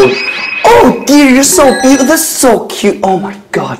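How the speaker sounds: gushing American clerk. Retold or imitated. Department store clerk gushing over a customer, fading. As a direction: coo over a customer, then trail off. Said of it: "백화점 갔는데".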